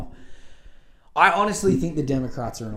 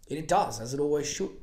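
talking through hiccups; speech broken by hiccups; 3 semitones higher than usual. Real, not acted. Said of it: "I got the hiccups".

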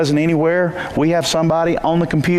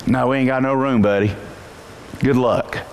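low, offhand brush-off; dismissive innkeeper; 4 semitones lower than usual. Retold or imitated. Innkeeper to Joseph, lower and dismissive. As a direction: shrug them off the doorstep. Innkeeper turning them away.

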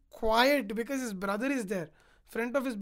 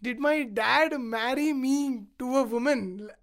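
indignant taunt; 4 dB louder than usual. Retold or imitated. Sita scolds her husband Rama, indignant. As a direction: challenge him, leaning hard on the words.

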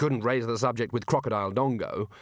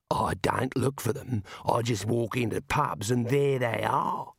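tough dwarf voice; slower than usual. Acted. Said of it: "said Mad".

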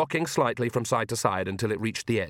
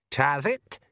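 tiny pixie voice; 4 semitones higher than usual. Acted. The tiny Feegle speaks.

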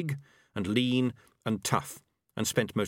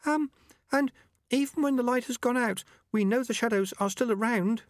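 high, hesitant little voice; timorous young rat. A narrator's reading. Young rat speaks up to the elders, timorous and high. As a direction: pipe up timidly, much higher. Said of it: "timorously raised a paw".

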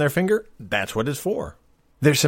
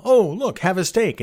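higher, cheery showman voice; bright old TV host; chipper sci-fi character; 6 semitones higher than usual. Retold or imitated. Voicing sci-fi food pill user.

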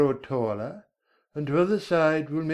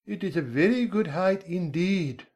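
slow, indignant caterpillar, pitched up; mildly angry; 7 semitones higher than usual. Acted. Caterpillar offended about its own height, mildly angry. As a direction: take offence slowly, in character. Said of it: "said the caterpillar angrily".

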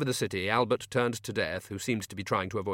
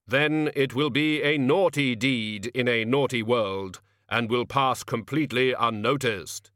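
solemn measured reaper, slow; grim reaper voice; 3 dB louder than usual. Acted. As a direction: Death calmly explains himself. Death answers Albert.

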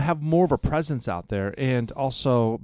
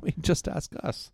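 whispered; 3 semitones higher, 6 dB quieter than usual. Real, not acted. Joking boast.

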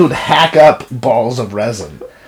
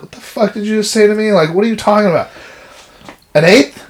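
mock outraged disbelief; 7 semitones higher, faster than usual. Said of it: "I was like".

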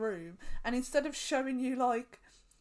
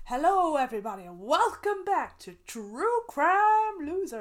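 loud, higher YouTube host intro; YouTuber intro voice; 7 semitones higher, 10 dB louder than usual. Retold or imitated. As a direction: belt out a channel intro. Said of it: "He goes".

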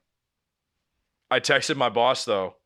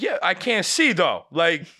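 exasperated; 6 semitones higher, 3 dB louder than usual. Retold or imitated. Exasperated at dad.

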